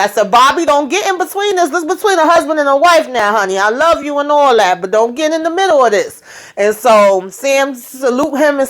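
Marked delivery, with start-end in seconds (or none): 0.3-6.2 raised pitch, scolding but fond; high bossy aside; high firm warning. Retold or imitated. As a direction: shoo him out of the fight. Narrator warning Bobby off.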